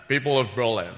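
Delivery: Sean Connery playing Kennedy, shushing every s. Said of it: "Sean Connery doing, uh, President Kennedy".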